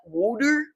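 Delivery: wooder with the vowel of wood, as a rising question; mocking wooder imitation. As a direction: imitate a roommate teasing with wooder. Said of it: "used to make fun of me for it".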